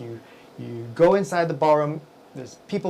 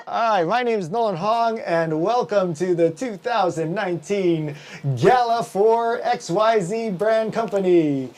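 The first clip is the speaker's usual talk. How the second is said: slightly raised, projected MC welcome voice; emcee announcement; 5 semitones higher, 3 dB louder than usual. Retold or imitated. Emcee calling guests to their seats, mildly projected. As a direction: announce to a chattering ballroom, lightly performed. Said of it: "I do the whole".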